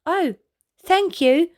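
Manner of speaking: smiling thanks. Acted. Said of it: "smiled Alfie".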